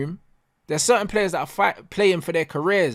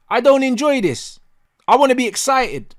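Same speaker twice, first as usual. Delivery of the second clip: louder, higher exasperation; fed-up, raised voice; frustrated outburst; 4 semitones higher, 4 dB louder than usual. Real, not acted. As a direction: vent real frustration at your team. Frustrated rant about his team.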